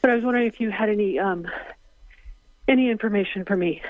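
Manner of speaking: breathless, breaking into a whisper; winded, running out of air; out of breath. Real, not acted. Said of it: "I'm a little out of breath".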